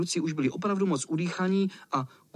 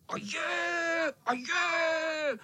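high taunting holler; 13 semitones higher, much slower than usual. Acted. Cat hollering from the bushes to tease the boys. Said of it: "zahulákalo to z křoví".

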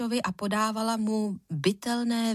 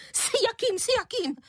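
shrill, much higher echoing repeat; unnaturally high voice; 14 semitones higher than usual. Acted. Angry mother mocking the question, unnaturally high. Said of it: "nepřirozeně vysokým hlasem".

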